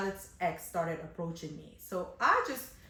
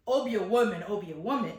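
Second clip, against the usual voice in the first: mock bawling; 5 dB louder than usual. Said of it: "she's bawling out".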